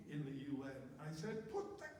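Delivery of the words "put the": loud, high-pitched shout at a colleague. Retold or imitated. Employee shouting at a UN colleague over the pouch, loud yell. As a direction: yell it, losing your temper for once. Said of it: "the only time in my career I shouted".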